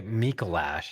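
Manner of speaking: "Mikolash" with a short "a" as in "lash"; others' pronunciation of Mikolash. Shown as a demonstration. Co-host quoting how many people say the name, drawn-out MEE-ko-lash. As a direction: say "Mikolash" drawn out, last syllable rhyming with "cash". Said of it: "A lot of people say".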